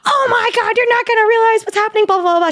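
telling her best friend the news, squealing and frantic; frantic excitement. Retold or imitated. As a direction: rattle it off in a breathless high rush.

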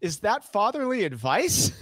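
high, laughing disbelief; laughing question. Retold or imitated. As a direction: ask it while laughing. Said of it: "And Jared goes".

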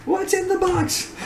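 high, hammy announcer; game show host voice. Pretend. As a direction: hype up the prize box like a host. Game show prize joke.

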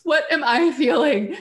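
high, slow, searching question; probing self-question. Retold or imitated. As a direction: ask it like a coach to a client. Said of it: "I'm like".

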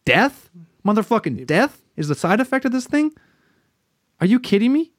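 mock shock at the side effects, voice shooting up; outraged disbelief. Patient hearing the ad, in high outraged disbelief.

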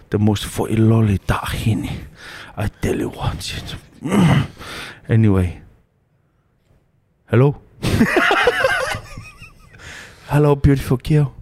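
put-on smitten Tongan-accented suitor; comic Pacific Islander accent, flirting; fob accent. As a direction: chat her up in Islander English. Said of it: "the Islander accents".

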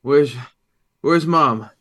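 high, loud anxious question; alarmed father. Acted. Father asking his son about Mom, alarmed. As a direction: panic rising as you ask.

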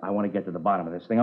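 ordinary talk, nothing marked

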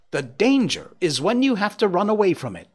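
high, bright call; loud and gay. Acted. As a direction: call it out playfully. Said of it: "loudly and gaily".

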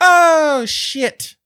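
high, loud mock-panicked curse; retold panic. Swimmer realizing the danger in the ocean, high-pitched panic. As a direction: let the voice shoot up in alarm. Retold moment of fright at sea.

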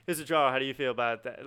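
lightly mocked aggressive questioning; aggressive interviewer. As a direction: imitate an interviewer pressing for a reaction. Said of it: "the guy was so aggressive with asking".

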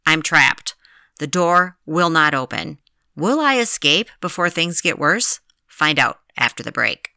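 radio cliffhanger voice; lightly dramatic narrator tease; dramatic teaser. Acted. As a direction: tease the cliffhanger like a show promo.

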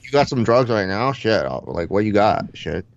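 loose fighter-bro impression; Diaz brothers. Stoner fighter fielding the host's questions, fighter-bro impression. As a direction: play a spaced-out stoner fighter. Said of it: "the Diaz brothers".

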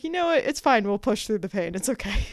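mock pep talk. Pep-talking herself through pain.

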